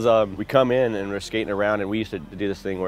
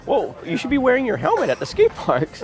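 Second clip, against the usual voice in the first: much higher, scolding aunt voice; aunt's voice; 4 dB louder than usual. Retold or imitated. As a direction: lecture him like a fussy aunt. Aunt voiced in retold talk.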